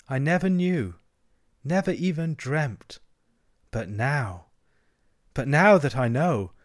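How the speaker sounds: slow, lingering reverie with pauses; dreamy. Acted. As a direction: muse as if lost in a trance. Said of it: "in a dreamy monotone".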